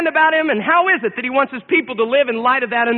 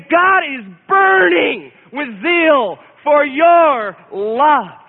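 earnest personal appeal; much slower than usual. Pretend. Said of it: "look at each one of you as individuals and say".

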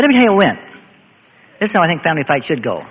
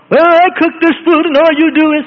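imitated rage; 11 semitones higher, 5 dB louder than usual. Preacher imitating a petty wife scolding him, mock angry. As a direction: play the wife starting to blow up, hammed-up. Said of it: "she could have gone into a rage".

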